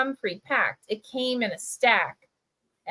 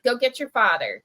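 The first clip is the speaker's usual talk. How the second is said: polite; 2 semitones higher than usual. Retold or imitated. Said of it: "much more, you know, like, polite".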